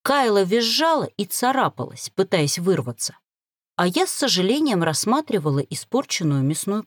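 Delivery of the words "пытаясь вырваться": ordinary delivery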